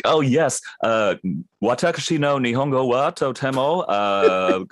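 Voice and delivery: halting Japanese with a broken foreign accent; dumbed-down Japanese. Shown as a demonstration. Voice actor showing how roles dumb down Japanese, broken accent. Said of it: "dumbing down the Japanese".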